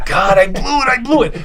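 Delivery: high, rising despair; self-reproach. Retold or imitated. Dancer running home berates himself, pitch rising. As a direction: beat yourself up, pitch climbing. Upset after failed audition.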